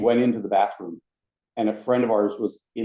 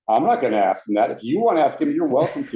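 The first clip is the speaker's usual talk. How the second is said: emphatic pass-the-buck retort, pitch climbing; imitated refusal; 4 semitones higher, 3 dB louder than usual. Park executive refuses to ask his boss, animated imitated refusal. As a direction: push it back on them, rising higher.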